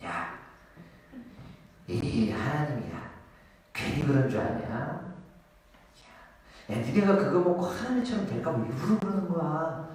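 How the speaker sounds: quiet, insinuating serpent voice; sly tempter. Acted. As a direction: whisper doubt into her ear. 사탄이 하와를 꼬드김. (뱀처럼 나지막이 꼬드기는 목소리)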